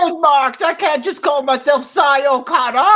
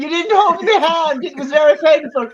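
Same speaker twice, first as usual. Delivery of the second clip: mock Irish. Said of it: "was that meant to be an Irish impression".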